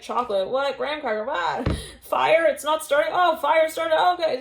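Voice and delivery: high, loud comic confusion; flustered bewilderment. Acted. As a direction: play it baffled, pitch and volume climbing. Acts out flustered confusion at absurd events.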